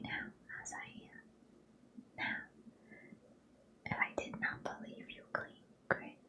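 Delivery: put-on Southern suitor's plea, whispered in a faint Southern accent. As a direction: whisper his lines with a light Southern accent. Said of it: "maybe I'll try Southern accent again".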